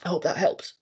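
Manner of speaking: hoarse, fading voice; losing her voice. Real, not acted. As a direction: voice giving out. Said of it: "Sorry, I'm losing my voice".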